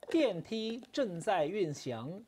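very slow robotic announcer voice; lightly imitated station announcement; mock elevator announcement. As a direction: drag it out like a machine voice. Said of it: "我觉得他听起来好像是那个什么".

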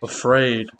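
hush, scared and pleading; small scared plea. Real, not acted. Gamer pleading quietly not to be left alone.

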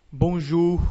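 bonjour with plain ou like Portuguese u; French bonjour, no pout; French ou sound. Shown as a demonstration. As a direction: say bonjour with an open ou. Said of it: "U, simplesmente, como em".

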